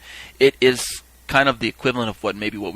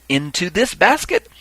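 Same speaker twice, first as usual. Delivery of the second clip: higher, slow question with rising end; calling out; 6 semitones higher, 3 dB louder than usual. Retold or imitated. Reaper asking a third time, calling out. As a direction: call it out ceremonially.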